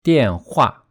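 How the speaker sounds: 电话 with lighter falling 电 and stronger falling 话; stress on second syllable. Shown as a demonstration. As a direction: say 电话 naturally, weight on 话. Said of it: "more stress on the second character".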